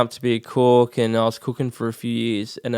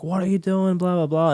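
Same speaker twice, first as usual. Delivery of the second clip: higher-pitched mock yell at a student; teacher yelling; 7 semitones higher than usual. Acting teacher jumps on the table and yells at the class, mock yell. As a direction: imitate a teacher snapping mid scene, pitched up. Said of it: "like, scream".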